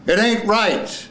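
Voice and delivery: high, slow, emphatic delivery; acted last line. Actor giving the last line on request, high and slow. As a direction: pitch it high and stretch it out.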